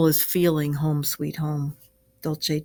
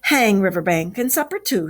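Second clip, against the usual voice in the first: hearty; 2 semitones higher, 3 dB louder than usual. Acted. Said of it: "said the Ratty heartily".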